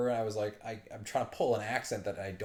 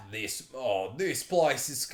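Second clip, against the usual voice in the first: failed Scottish attempt that turns Australian; slow, faltering try that lands Australian; attempted accent, Australian; 3 semitones higher, 4 dB louder, much slower than usual. Shown as a demonstration. Player testing a governor's voice, accidental Australian accent. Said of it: "that's Australian".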